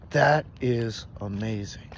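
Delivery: slow, low, measured awe; awed reaction. Retold or imitated. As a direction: let each word land in wonder.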